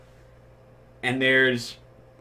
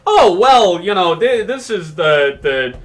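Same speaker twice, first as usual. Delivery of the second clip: put-on old lady voice; 5 semitones higher, 7 dB louder than usual. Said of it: "And she's probably just like".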